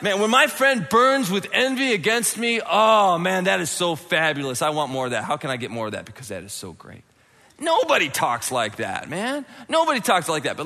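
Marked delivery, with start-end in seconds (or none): 0.0-7.0 sarcastic gushing. Acted. Preacher acts someone praising a friend's envy, sarcastic gushing.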